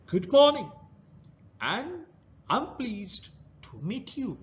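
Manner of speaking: put-on a rough crab greets the boy; rough creature voice. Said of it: "he heard a rough voice".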